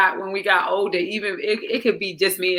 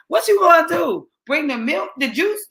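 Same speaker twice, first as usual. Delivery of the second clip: higher, mocking sarcastic question; sarcastic mockery; 8 semitones higher than usual. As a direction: tease her about bringing drinks. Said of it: "he was like".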